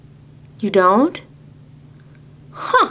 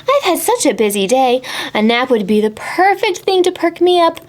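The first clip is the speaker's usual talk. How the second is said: hurried woman; 5 semitones higher, faster than usual. Acted. Busy woman voiced.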